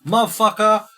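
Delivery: high, loud furious yelling wife; mock-furious wife yelling at her husband. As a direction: shriek it at your husband in outrage. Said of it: "And the wife's like".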